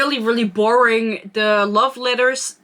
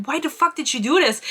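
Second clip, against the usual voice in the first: higher-pitched mock indignation; retold angry yell; 6 semitones higher than usual. Retelling him confronting her, mock yelling. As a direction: demand it like an outraged man, hammed-up. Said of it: "yells at her".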